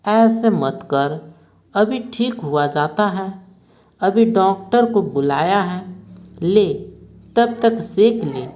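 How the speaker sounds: gentle, petting reassurance; mother soothing her son's stomach ache, lightly coaxing; coaxing tenderly. Acted. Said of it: "दुलार पुचकार का बोलती है".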